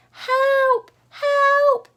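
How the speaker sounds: high, loud, desperate shout; shout for help. Acted. Pig running from the shepherd, high loud shout. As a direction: yell for help while running. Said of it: "he shouted as he ran".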